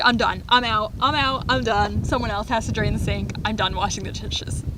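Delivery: loud refusal. Retold or imitated. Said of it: "I was like".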